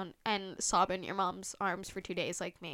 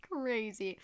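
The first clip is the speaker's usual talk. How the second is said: laughing. Real, not acted. Repeating it while laughing.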